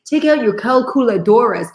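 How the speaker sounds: "calculadoras" with Spanish rolled r and open vowels; Spanish accent. Shown as a demonstration. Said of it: "That's calculator in Spanish".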